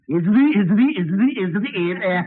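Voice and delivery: stuck stutter on a word. Acted. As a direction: keep tripping on the same word. Stuttering witness.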